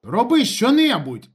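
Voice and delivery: high, loud, stretched shout; exasperated full shout; angry yelling. A narrator's reading. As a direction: yell the order impatiently. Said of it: "закричав йому Ніколаєч".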